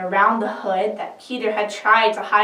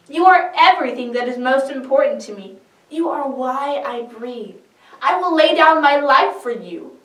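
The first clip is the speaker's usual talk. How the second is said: higher, louder, pleading with fervour; passionate plea; 5 semitones higher, 6 dB louder than usual. Acted. Peter pleads with Jesus, raised and fervent. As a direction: beg to follow your Lord with all your heart.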